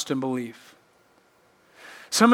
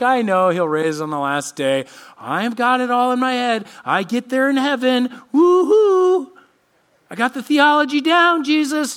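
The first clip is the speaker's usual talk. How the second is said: mock-cheery know-it-all, pitched higher; breezy, rising to a high woo-hoo; flippant Martha; 7 semitones higher, 4 dB louder than usual. Martha brushing Jesus off, mock-cheery. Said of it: "And she's going like".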